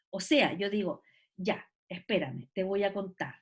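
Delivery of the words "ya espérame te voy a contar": TE VOY A CONTAR low and soft, left hanging; suspenseful trailing-off. Shown as a demonstration. Teacher demonstrating ellipsis, TE VOY A CONTAR low and suspenseful. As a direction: lower the voice on YA, ESPÉRAME, TE VOY A CONTAR and leave it unfinished. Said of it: "se le genere la sensación de que le van a contar algo súper relevante".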